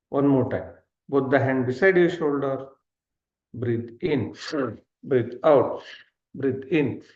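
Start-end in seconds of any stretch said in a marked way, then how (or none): 3.5-7.0 rhythmic in-and-out calls, gradually quickening; steady drilled cadence that tightens as it goes; breathing-exercise cues. Shown as a demonstration. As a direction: count out breaths like an instructor, picking up speed. Leading second round of breathing.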